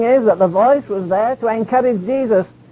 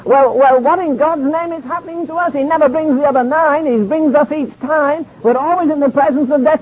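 lightly acted puzzlement, pitched higher; bewildered disciples; 4 semitones higher than usual. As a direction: voice the baffled disciples a little higher. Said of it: "scratched their heads or knocked their heads and said".

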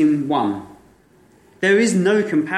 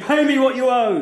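lightly fierce demand, raised; mild demand; 7 semitones higher than usual. Acted. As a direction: squeeze the words out with a touch of ferocity. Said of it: "there's ferocity there".

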